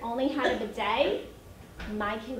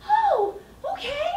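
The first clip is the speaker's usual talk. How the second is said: high, laughing "oh, okay"; amused surprise; 6 dB louder than usual. Retold or imitated. Mom laughing at the friend's bathroom report. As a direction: hold back a laugh at the news. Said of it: "I'm like".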